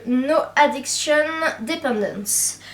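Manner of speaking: product name in a thick French accent; English words said with a French accent. Shown as a demonstration. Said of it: "avec mon super accent".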